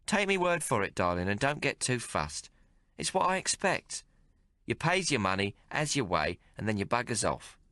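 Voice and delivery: a streetwise barmaid teasing the hero; Maggie's voice. Acted. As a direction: play her worldly and mocking. Maggie's cynical speech.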